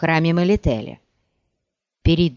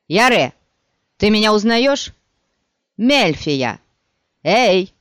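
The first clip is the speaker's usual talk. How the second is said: put-on young friendly voice; 4 dB louder than usual. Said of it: "молодым и удивительно знакомым голосом".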